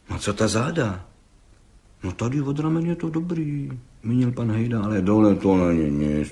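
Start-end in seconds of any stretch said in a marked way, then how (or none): none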